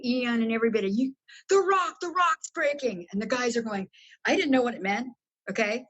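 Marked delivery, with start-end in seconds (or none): 0.9-3.1 retold yell. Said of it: "I yell at everybody".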